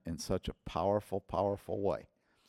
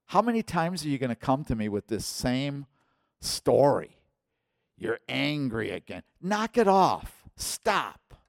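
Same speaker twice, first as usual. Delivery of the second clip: exasperated rebuke, pitched up; fed-up scolding; 5 semitones higher, 4 dB louder than usual. Retold or imitated. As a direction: scold like a pastor who has had enough. Pastor acting out angry scolding.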